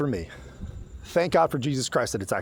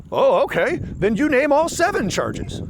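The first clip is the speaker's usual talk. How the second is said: mocking smug reply; 11 semitones higher, 4 dB louder, slower than usual.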